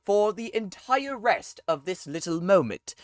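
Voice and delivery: put-on pompous old-fashioned gentleman voice; old-time voice. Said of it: "speak an entire sentence in an old-time voice".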